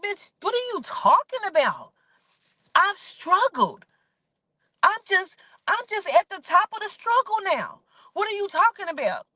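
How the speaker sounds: high, outraged disbelief voice; incredulous friend. Retold or imitated. Tasha denies Tiny's accusation in high disbelief.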